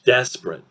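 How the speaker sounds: "Desperate" in two syllables, DES-prit; reduced pronunciation. Shown as a demonstration. Teacher models the reduced word, "Desperate" in two syllables. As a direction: say "Desperate" as DES-prit, middle vowel dropped. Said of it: "Two syllables".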